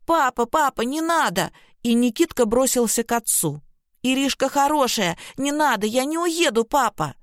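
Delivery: put-on high, pleading little boy; scared child. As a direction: beg like a frightened small boy. Frightened child begging his father.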